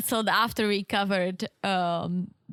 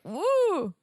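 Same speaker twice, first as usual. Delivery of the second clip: ghostly "woo", pitched up; playful ghost howl; haunted "woo"; 6 semitones higher than usual. Shown as a demonstration. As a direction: wail a short spooky "woo". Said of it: "supposed to be haunted".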